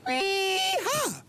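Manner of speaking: high, drawn-out cowboy whoop. Acted. Husband thrilled by the dinner result, whooping. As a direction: let out a long high whoop. Celebrates how well whispering worked.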